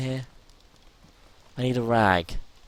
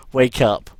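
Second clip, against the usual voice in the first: loud, half-laughing shout; character passing out, loud desperate yell; 2 semitones higher, 12 dB louder than usual. Real, not acted. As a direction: yell at yourself to stay awake.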